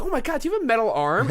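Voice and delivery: put-on high, chatty teen hero voice; excited Spider-Man. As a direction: squeak it out like an awed kid. Spider-Man voiced in fight retelling.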